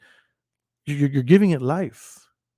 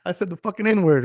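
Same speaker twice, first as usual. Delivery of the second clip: higher, mock-shocked gasp with a laugh; mock realization; 5 semitones higher than usual. Caught saying the word at work, mock-shocked and laughing. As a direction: play fake surprise at yourself, laughing. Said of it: "I'm like".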